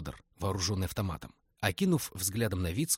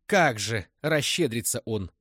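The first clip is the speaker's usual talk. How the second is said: slow, mocking, louder echo of his manner; matching his tone; 2 semitones higher, 6 dB louder, slower than usual. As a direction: throw his own tone back at him. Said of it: "в тон ему ответила". (в тон собеседнику, насмешливо)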